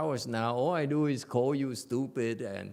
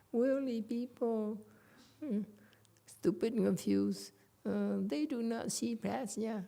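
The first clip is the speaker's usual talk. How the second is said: polite Chinese manner; 10 semitones higher than usual. Acted. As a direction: say it ever so politely, in a raised hesitant voice. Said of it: "I have to do it like the Chinese".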